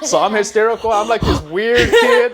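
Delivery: put-on high, loud, laughing weird-kid voice; hysterical weird kid. To the hosts, acting out the strange kid, high and giddy. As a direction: play the oddball kid, giddy and sing-song.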